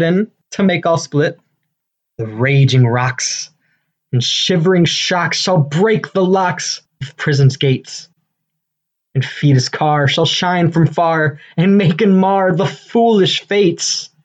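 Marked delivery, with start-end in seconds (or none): 2.2-14.1 tyrant's vein. Acted. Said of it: "This is Hercules' vein, a tyrant's vein".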